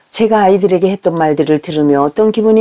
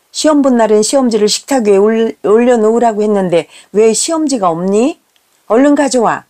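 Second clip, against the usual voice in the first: mildly sharp mother's demand; mock stern questioning of the kids; raised-voice demand; 2 semitones higher than usual. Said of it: "라고 목소리를 높입니다".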